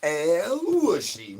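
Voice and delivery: slow, stretched sing-song name call; stretched pet call; drawn-out call. Acted. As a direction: draw the name out like calling a pet. Calling out a pet's name.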